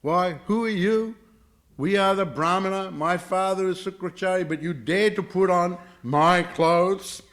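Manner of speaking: high, loud, haughty outrage; acted anger. Brahmana's daughter to girl in her clothes, acting very angry. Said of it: "Devayani became very angry".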